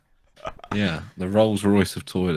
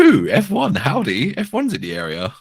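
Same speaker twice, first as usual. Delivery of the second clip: higher, louder hammed-up American twang on the first words; second try at American accent; 9 semitones higher, 7 dB louder than usual. Urged by co-host, retrying a hammed-up American accent. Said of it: "still too English".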